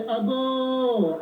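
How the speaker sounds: long held call; visitor calling at door. Acted. Visitor announcing himself at a house in Ghana, drawn-out call. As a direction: call out with the last vowel sustained. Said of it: "you say".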